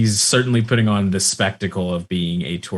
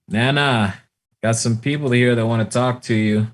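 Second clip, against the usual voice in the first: raised, higher call to grandma; 4 semitones higher, 3 dB louder than usual. Acted. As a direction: call through the screen door. Grandson calls through screen door.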